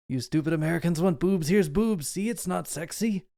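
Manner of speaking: put-on half-hearted Dutch-director accent, lifting in pitch; Paul Verhoeven. Podcaster mocking American moviegoers as the director, lazy European accent. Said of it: "my very lazy Paul Verhoeven impression".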